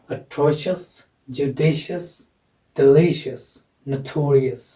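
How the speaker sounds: "atrocious, judicious, delicious, notorious", each stressed on its second syllable; pronunciation demonstration. Shown as a demonstration. Teacher recapping for students, second-syllable stress in "atrocious, judicious, delicious, notorious". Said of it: "इनका उच्चारण ऐसे करना है".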